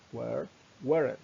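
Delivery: slow, careful model of Were, weren't; slow teacher repeat; slow and clear. Shown as a demonstration. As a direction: spell out Were and weren't slowly for learners. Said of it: "teacher repeats the words slowly".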